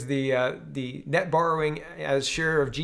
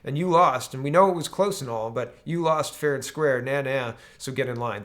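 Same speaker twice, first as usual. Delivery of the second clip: mock Democrats. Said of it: "the Democrats are telling".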